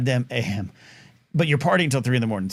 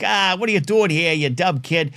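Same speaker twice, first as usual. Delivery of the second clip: put-on a light Long Island tough-guy accent; mock grumpy Long Island neighbor; lightly voiced Brooklyn neighbor shooing a kid; 3 semitones higher than usual. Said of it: "me being some kind of Brooklynite, Long Island".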